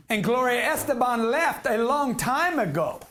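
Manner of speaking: put-on botched Puerto Rican accent that sounds Asian; joking put-on accent. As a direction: stretch it out in a hammed-up foreign accent. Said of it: "he said your accent was Asian".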